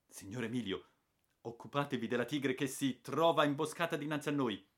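put-on old hunter commanding his companion; imperious order. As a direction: give the order like a stern old captain. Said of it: "con accento imperioso".

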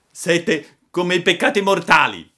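loud, high mocking quip; amused jeer. A narrator's reading. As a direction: throw it out with a touch of laughter. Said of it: "disse Pinocchio con una gran risata". (canzonatura divertita)

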